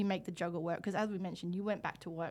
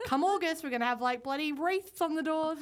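higher, incredulous mock exclamation; mock outrage; 7 semitones higher, 3 dB louder than usual. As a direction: act scandalised, pitch up. Mock outrage about early Christmas.

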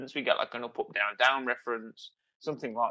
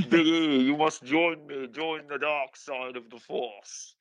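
mock Darth Vader; slower than usual. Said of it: "Darth Vader".

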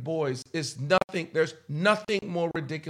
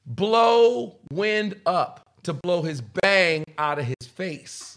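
blowing air upward; much slower than usual. Shown as a demonstration. Friend shows the boy's bang-blowing habit, puffing air. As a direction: puff air up out of the mouth between words. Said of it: "and he would".

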